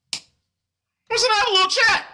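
high silly mock-sexy voice; hammed-up seductive voice; super sexy voice. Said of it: "my super sexy voice".

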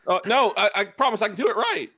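high, whimpering mock plea; mock pleading. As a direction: beg like a scared underling, hammed up. The speaker begs in mock fear.

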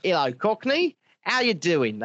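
imitated phone greeting, Cockney sounding Australian; lightly put-on Australian-tinged Cockney accent; Cockney-Scottish Australian accent. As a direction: mimic the sister's mixed Cockney-Australian accent. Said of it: "she rings you up and she says".

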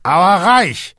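high, loud squeak. A narrator's reading. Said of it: "quiekte Hagen".

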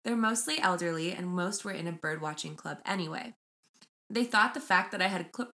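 measured storytelling read; reading aloud. Acted. Host reading crow story to co-host, measured read-aloud. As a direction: read the post out evenly, phrase by phrase. Reads Reddit post aloud.

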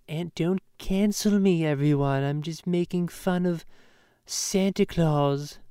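lightly hammed-up pleading celebrity; mocking a star begging not to be cancelled; mock Seth MacFarlane.

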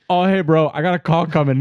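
high, loud imitation of a dodging friend; put-on high voice, making an escape; mock hasty excuse. Retold excuse to hang up.

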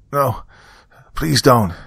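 high-pitched acted pleading; begging. A narrator's reading. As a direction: plead urgently as the old woman. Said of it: "she begged".

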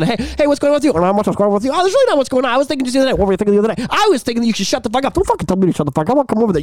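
switching between voices of different people; several voices. Shown as a demonstration. Showing how mic cupping makes several people argue. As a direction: play a whole crowd with one mic. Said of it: "I'm like this and then I'm like this".

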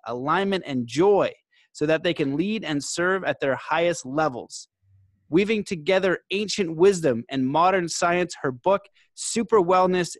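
measured announcer read with punched key words; podcast intro read. Acted. Host formally introducing today's guest to listeners, podcast intro read. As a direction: read out a guest bio, phrase by phrase.

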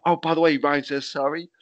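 chirpy offhand messenger; casual relayed message. Retold or imitated. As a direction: drop the news offhand and cheerful. Retelling the apology message.

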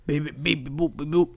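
softly spoken robot beeps; robot saying binary. Pretend. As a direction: beep like a deadpan robot. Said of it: "That's my Scott Steiner impression".

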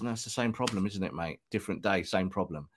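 imitating Ten Hag. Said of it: "And he goes".

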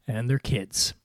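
usual speaking voice

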